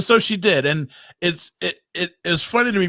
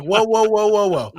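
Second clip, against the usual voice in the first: higher, louder run of retold whoas; alarmed halting; 5 semitones higher, 4 dB louder than usual. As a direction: act out a startled dad calling a halt. Repeats his halting reaction, amused.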